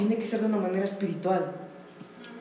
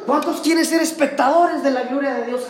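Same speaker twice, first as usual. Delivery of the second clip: higher pitched mock crowd-rousing call; retold preacher's yell; 3 semitones higher than usual. Mimicking the showy anniversary preacher, mock rousing call. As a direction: imitate a preacher working up applause. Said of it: "Y él gritaba".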